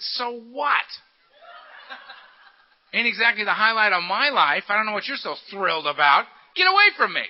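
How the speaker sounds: loud, rising into a high yell; a hammed-up snarl at the eager greeter; mock angry brush-off. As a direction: shove him away with scorn. Hostile newcomer snapping at greeter.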